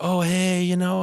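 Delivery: high put-on phone voice; mock a guy going high for his girlfriend; changed voice for girlfriend. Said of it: "those people who change voices".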